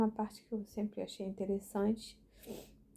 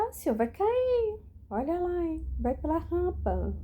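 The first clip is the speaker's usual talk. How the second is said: mock scolding call, much higher and louder; calling out a warning; 10 semitones higher, 8 dB louder than usual. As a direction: shout a teasing caution across the street. Warning the old man on street.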